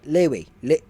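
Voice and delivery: attempted Australian "Louis", first vowel turned toward "lay"; tentative Australian-accented "Louis"; imitated Australian accent. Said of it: "He had an accent".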